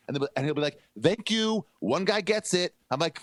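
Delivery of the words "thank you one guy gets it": much higher, pleased thank you; relieved that someone's finally on his side; a light Trump voice, pleased; mock grateful Trump. Voicing Trump's grateful reply.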